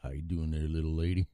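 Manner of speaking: tip a hat in a lightly put-on Texan accent; Texas accent. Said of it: "Austin, Texas".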